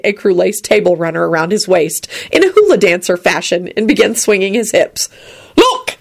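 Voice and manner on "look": very high, gleeful call; happy bellow. A narrator's reading. Drunken Arthur shows off, happy bellow. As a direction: bellow it with delight. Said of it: "he bellowed happily".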